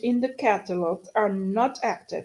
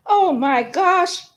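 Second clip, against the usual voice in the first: slow, higher and louder exasperated outburst; 6 semitones higher, 4 dB louder, slower than usual. Real, not acted. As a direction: let the frustration burst out, slowly.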